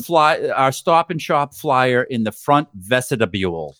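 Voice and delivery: slow announcer call with drawn-out words; imitated store announcer. Store announcer to shoppers, slow imitated Boston announcement. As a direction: announce it slowly, adding a syllable to "vestibule". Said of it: "So they were always like".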